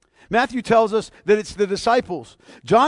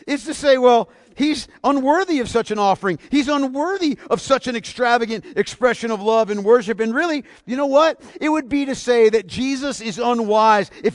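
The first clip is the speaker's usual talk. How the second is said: louder, higher, driving indignation; forceful preaching; 5 semitones higher, 6 dB louder than usual. Real, not acted. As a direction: hammer it home with fire. Preacher thunders critics' contempt.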